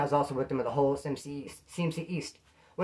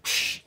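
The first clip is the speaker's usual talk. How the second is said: imitated "psh" of noodles hitting the floor; loud smashing noise. Shown as a demonstration. Showing ramen thrown on the ground, imitated smash. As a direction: burst of air for a smash.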